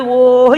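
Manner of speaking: loud mock bawling cry; a brief loud imitation of a child crying; imitated child's wail. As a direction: wail out like a hurt little boy. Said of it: "ఏడుస్తున్నాడు".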